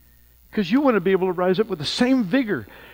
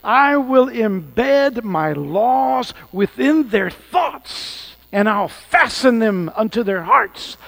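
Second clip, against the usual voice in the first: slow emphatic reading; 6 semitones higher, 8 dB louder, much slower than usual. Acted.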